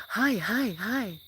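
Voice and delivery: put-on high, bright child voice saying hi; little kids greeting. Kids greeting the streamer, imitated in a high child voice. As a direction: squeak it like an eager little kid. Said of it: "the kids are like".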